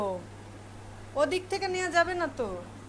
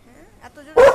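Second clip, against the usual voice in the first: mock calling out; 20 dB louder than usual. Calling out to pretend noise.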